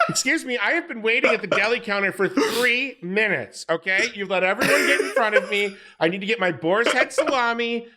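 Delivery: lightly voiced demanding customer, laughing; entitled Karen voice. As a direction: complain at the deli counter like a Karen. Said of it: "Tommy with the Karen".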